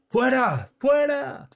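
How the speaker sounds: piercingly high, loud cries; crowd shouting. A narrator's reading. Many worshippers yelling the drunk out, very high shouts. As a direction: shout it like a mob. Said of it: "gritaban muchos".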